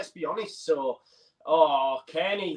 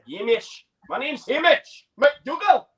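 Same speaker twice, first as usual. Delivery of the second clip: hammed-up Scottish accent, higher and slow; mock Scottish accent; 9 semitones higher, slower than usual. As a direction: introduce yourself like a proud Scotsman, in a put-on Scottish accent. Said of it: "Killed it".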